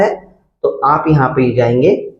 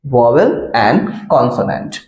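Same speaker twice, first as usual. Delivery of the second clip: slow, spelled out; 3 semitones lower, much slower than usual. Shown as a demonstration. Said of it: "आपने पढ़ा होगा grammar में".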